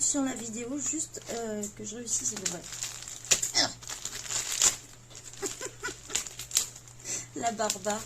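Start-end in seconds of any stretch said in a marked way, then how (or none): 2.7-7.3 real helpless wheezing laugh, airy and high; long breathless laugh. Real, not acted. Vlogger fighting the tape on a parcel, breathless laugh. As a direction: let it out in a long silent giggle. Struggling to open taped parcel.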